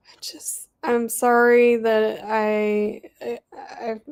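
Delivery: fighting back tears, voice wavering; holding back tears. Real, not acted. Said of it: "trying not to cry".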